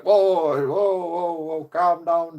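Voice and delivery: high, loud whoa, slowing to calm down; alarmed police. Retold or imitated. Policeman cutting off the insult, loud and alarmed. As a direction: cop jumping in to stop him, urgent then soothing.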